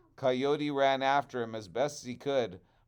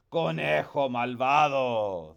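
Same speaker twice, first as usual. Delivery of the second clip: angry curse; 8 dB louder than usual. Acted. Coyote stung, cursing rabbit.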